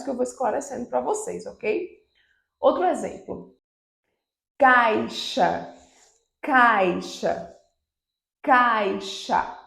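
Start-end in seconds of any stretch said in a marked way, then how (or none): 4.6-9.6 "caixa" said slowly, with a pause after each one; careful teacher demo; repeated model word. Shown as a demonstration. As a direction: repeat "caixa" clearly for the class. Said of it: "Observem que quando eu digo".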